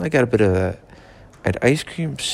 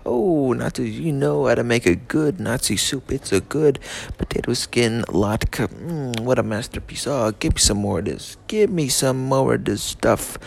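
mock savouring voice. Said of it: "They sipped it up and said".

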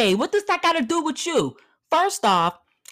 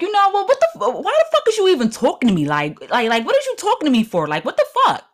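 ghetto snap; 5 semitones higher, faster than usual. Shown as a demonstration. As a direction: flip from polite to street and go off. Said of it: "But then I could be like".

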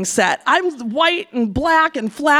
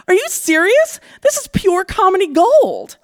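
amused; 7 semitones higher than usual. Retold or imitated. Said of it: "starts laughing hysterically".

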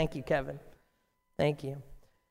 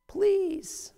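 breathless pleading whisper; hushed, begging; whispered plea; 11 semitones higher than usual. Acted. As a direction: beg again in a whisper. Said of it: "screams out".

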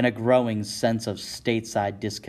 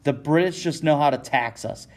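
heated, raised outburst; angry scream; 4 semitones higher than usual. Acted. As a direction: spit it out in anger. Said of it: "he screams".

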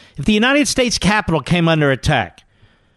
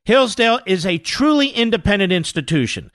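polished sponsor read, pitched up; 5 semitones higher than usual. Acted. Host thanking the college for sponsoring the podcast, sponsor read.

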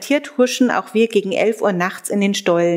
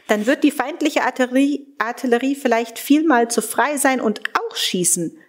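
indignant retort, pitched higher; angry retort, pitched higher; 4 semitones higher than usual. Acted. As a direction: fire back indignantly at the commandant. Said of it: "rief ich erbost".

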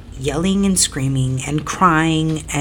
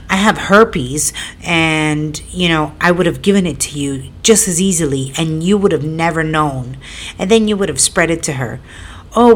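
put-on childish retort. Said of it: "like a child".

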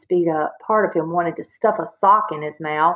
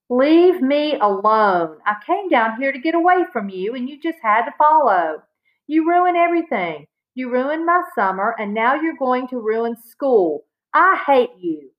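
angry outburst; 5 semitones higher than usual. Acted. Boy lashing out at sister.

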